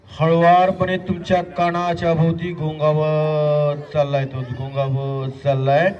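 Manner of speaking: slow, drawn-out hypnotist's voice; hypnotic suggestion. Pretend. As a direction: stretch the words as if following a hovering mosquito. Hypnotist suggests a buzzing mosquito.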